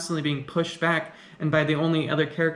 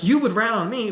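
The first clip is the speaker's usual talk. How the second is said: higher and louder, laughing in disbelief; incredulous laugh; 6 semitones higher, 4 dB louder than usual. Retold or imitated. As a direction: scoff at the idea through a laugh. She mocks his threat.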